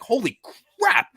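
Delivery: high, startled cry; shocked exclamation. Retold or imitated. Hornet still stinging his ankle, startled high cry. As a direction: blurt it out in alarm.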